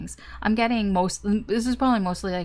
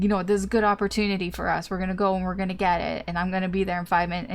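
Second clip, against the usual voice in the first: rushed eager friend; faster than usual. Retold or imitated. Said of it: "they're like".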